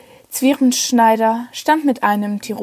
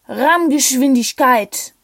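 shouted order; 3 semitones higher, slower than usual. Acted. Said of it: "brüllte von Schwarzenfeld".

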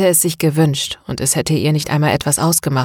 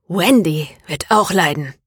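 a touch of restrained anger; mildly angry threat, held in; understated seething menace. Acted. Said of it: "erklärte René wütend".

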